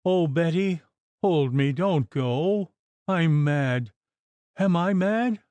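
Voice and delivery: high, desperate clinging plea; terrified pleading. Acted. Mistress begging Betty not to leave her, terrified.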